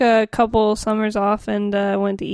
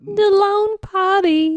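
dramatic announcer; 9 semitones higher, slower than usual. Pretend. Mock sad song title.

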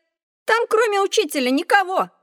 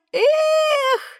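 dreamy sigh; 12 semitones higher than usual. Acted. Boy dreams of flying.

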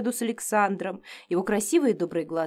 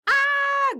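very high scream of shock; high yelp "А!"; wailing scream. A narrator's reading. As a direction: shriek under icy water. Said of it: "голосила я".

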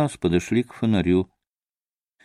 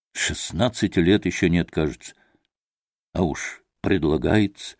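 contemptuous; 4 semitones lower, 4 dB quieter than usual. A narrator's reading. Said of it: "презрительно проговорил он".

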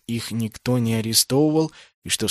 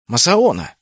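sharp high indignant cry of a name; indignant outcry; 8 semitones higher, 7 dB louder than usual. A narrator's reading. Naoki shouting at Masaona in outrage, indignant cry. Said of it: "возмущённо вскричал Наоки".

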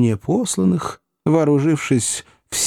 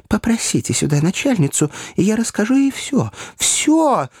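straining shout; 11 semitones higher than usual. A narrator's reading. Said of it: "напрягая лёгкие до крайнего предела".

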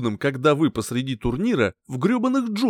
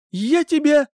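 high, louder threatening exclamation; mock threat; 12 semitones higher, 5 dB louder than usual. A narrator's reading. Girlfriend about to hit her cheeky boyfriend, mildly threatening. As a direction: threaten with a narrator's restraint.

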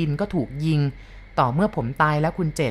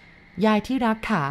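put-on slow, drawn-out tearful call to the old cook; a dead wife's grief held in the voice; ยายที่รักขา stretched slow and mournful; ghost's tearful plea; 6 semitones higher, much slower than usual. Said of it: "นั่งร้องไห้พิราบลำพัน".

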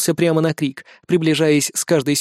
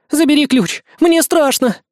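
frightened cry; 10 semitones higher, 4 dB louder than usual. A narrator's reading. Trapped girl crying in fear.

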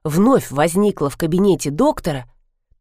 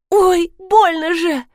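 higher, louder, slow tearful cry; crying out in pain; 9 semitones higher, 3 dB louder, slower than usual. Acted. Rita cries out after the blow, slow tearful wail. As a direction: wail it out slowly through tears. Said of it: "заплакала Рита".

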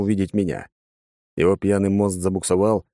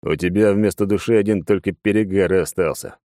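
ordinary delivery, nothing marked

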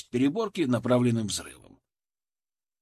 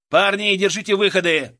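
loud, higher order to the squad; shouted command; 6 semitones higher, 7 dB louder than usual. A narrator's reading. Leader ordering his men to hold the exits, shouting. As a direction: call it out across the hold. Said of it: "тут же скомандовал я".

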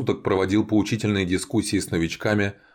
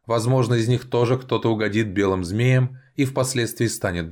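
higher, forceful proclamation; haughty elf envoy; 5 semitones higher than usual. A narrator's reading. Elf messenger gives the vampires their orders, high and commanding.

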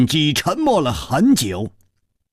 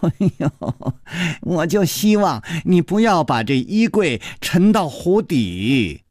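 wry smile; 3 semitones higher than usual. Acted. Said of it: "苦笑着说".

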